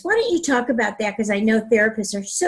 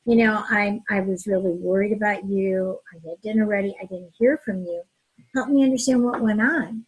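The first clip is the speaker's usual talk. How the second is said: gentle concern; 3 semitones lower than usual. Shown as a demonstration. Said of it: "the other person can hear it more when you say".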